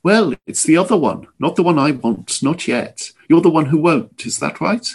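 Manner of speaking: a voice like boiling water, only hinted; bubbling, scalding voice. Acted. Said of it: "he spoke in a bubbling, scalding voice".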